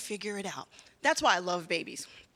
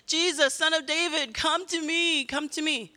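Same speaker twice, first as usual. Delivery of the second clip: higher-pitched repeated plea; imitating calling out; 5 semitones higher than usual. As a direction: call out insistently, a mild mock shout. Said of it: "when this blind man was saying".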